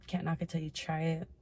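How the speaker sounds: ordinary talk, nothing marked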